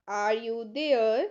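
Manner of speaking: slow it down and drop the pitch. Shown as a demonstration. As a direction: say it again, slowly, for learners. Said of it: "teacher repeats the phrase".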